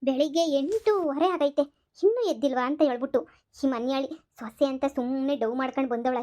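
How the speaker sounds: a lightly voiced scheming mother-in-law, muttering her plan. Mother-in-law plotting against her son's wife, lightly voiced and scheming. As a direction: plot aloud like a lightly played village mother-in-law.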